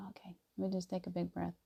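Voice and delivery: a breathy whisper to yourself; hushed self-talk whisper. Shown as a demonstration. Showing the calming big breath.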